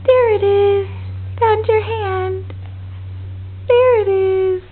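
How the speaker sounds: bright excited discovery. Real, not acted. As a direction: act delighted at finding it. Finding baby's hand, excited.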